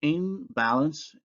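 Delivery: Imbalance with m before b; assimilated nasal; bilabial nasal. Shown as a demonstration. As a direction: close the lips for the m in Imbalance. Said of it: "the nasal becomes bilabial".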